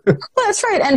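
high laughing agreement. Real, not acted. Guest laughing along with the host's joke, real laughter.

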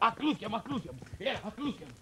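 hushed, conspiratorial follow-me; furtive summons. Acted. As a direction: beckon your accomplice along quietly. Sneaking off with his accomplice.

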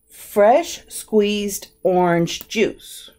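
slow, spaced-out words, FRESH leading high; words separated. Shown as a demonstration. Teacher separating the words so students hear them, slow and spaced. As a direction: say each word apart, stretched out. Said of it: "I separated here so you can".

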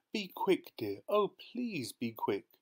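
high, drawn-out plea; anxious pleading. A narrator's reading. Wife waiting in the car, anxious pleading. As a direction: beg him to hurry. Late wife begs husband to hurry.

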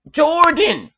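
high-pitched cry of hype; amazed fan outburst; excited exclamation. Real, not acted. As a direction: call the name out, pitch jumping up.

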